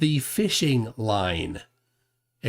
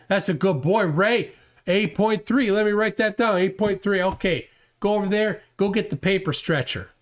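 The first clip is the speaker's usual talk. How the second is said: higher, talking down like praising a dog; condescending boss; 5 semitones higher than usual. Retold or imitated. A hint of a boss praising Ray like a good dog. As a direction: pat him on the head with your voice.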